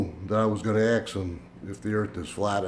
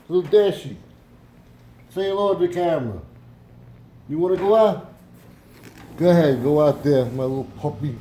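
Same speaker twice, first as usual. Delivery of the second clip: high pet talk; 6 semitones higher, 6 dB louder than usual. Real, not acted. Owner sends his little dog out in high baby talk. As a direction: coo up high at your puppy.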